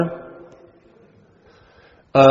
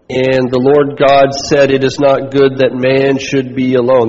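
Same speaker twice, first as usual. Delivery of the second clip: scripture reading. Acted. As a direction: read the verses deliberately, word by word. Reads scripture slowly.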